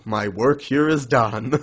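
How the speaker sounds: slow, lightly put-on triumphant line; mock self-satisfied. Podcaster imitates a character taking credit, mock self-satisfied. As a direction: say it like a hero signing off.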